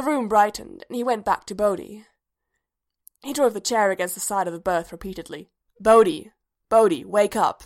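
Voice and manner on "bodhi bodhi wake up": loud urgent call to wake him. A narrator's reading. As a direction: shout him awake. Droid shouting to wake sleeper.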